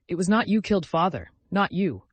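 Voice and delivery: insisting to his brother, firm and emphatic. A narrator's reading. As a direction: plant each word firmly. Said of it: "Alyosha repeated firmly".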